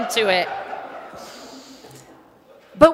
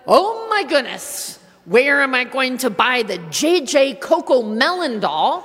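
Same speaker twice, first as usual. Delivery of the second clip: mock holiday panic; 3 dB louder than usual. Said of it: "And then it's paired with".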